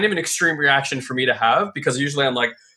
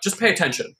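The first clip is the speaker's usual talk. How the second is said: higher, pointed scolding to the careless driver; curt stern rebuke; 5 semitones higher than usual. Retold or imitated. Scolding the woman who hit his car, stern and curt. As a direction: clip it like a firm telling-off. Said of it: "is basically how I said it".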